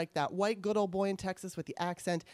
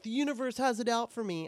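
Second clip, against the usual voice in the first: mock self-pity; 5 semitones higher, 4 dB louder than usual. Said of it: "what a stupid thing to say".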